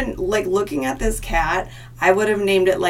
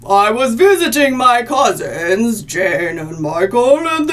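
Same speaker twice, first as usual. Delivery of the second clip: spooky voice; 3 semitones higher, 5 dB louder than usual. Acted. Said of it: "summarize it in a spooky voice".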